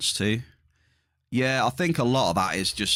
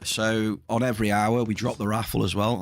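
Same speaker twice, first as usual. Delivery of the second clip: losing voice. Real, not acted. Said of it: "I'm losing my voice".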